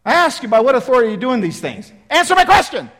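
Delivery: fast, loud, high repeat of the challenge; exasperated priest repeating the demand; insistent demand. Acted. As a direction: press him impatiently for an answer. Priests insist on their question.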